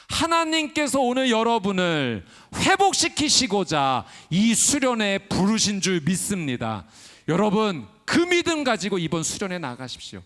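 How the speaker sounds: loud pulpit exhortation to the retreat crowd; preaching exhortation. Acted. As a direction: urge the congregation with full conviction.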